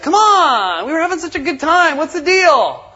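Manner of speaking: high, fast whiny complaint; kids freaking out. Retold or imitated. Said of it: "they'll start freaking out".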